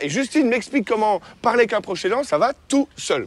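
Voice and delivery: blurred words, mouthguard in; wearing a mouthguard. Real, not acted. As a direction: still talking through a mouthguard. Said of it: "j'arrive pas du tout à parler avec ça". (toujours avec le protège-dents)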